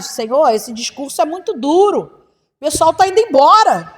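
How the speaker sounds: complaining Peter. Retold or imitated. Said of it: "Pedro, quando ele foi se queixar".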